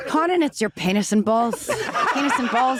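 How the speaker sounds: put-on dad's amateur Irish accent; playful mock-Irish delivery; attempted Irish accent. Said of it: "trying to do an Irish accent".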